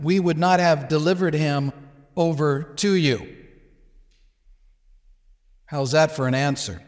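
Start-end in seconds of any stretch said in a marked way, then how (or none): 0.0-3.4 "delivered" given weight, slowed; stress on delivered. Shown as a demonstration. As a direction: point out the word "delivered". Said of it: "notice this word again".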